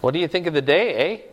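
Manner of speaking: imitated Canadian small talk with tag "eh"; playful Canadian impression; Canadian accent. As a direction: lightly put on a Canadian accent, lifting the "eh". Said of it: "northern Minnesota or even, like, Canada".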